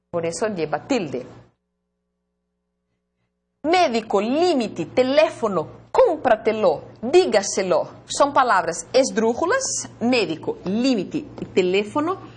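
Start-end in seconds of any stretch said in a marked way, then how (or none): 3.6-7.9 "Médico, límite, teléfono" stressed MÉ, LÍ, LÉ, "cómpratelo, dígaselo" on CÓM, DÍ; stress early in each word. Shown as a demonstration. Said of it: "porque la antepenúltima es la sílaba tónica". 10.0-12.3 "médico, límite y teléfono" stressed MÉ, LÍ, LÉ; stress on antepenultimate. Shown as a demonstration. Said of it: "porque la antepenúltima es la sílaba tónica".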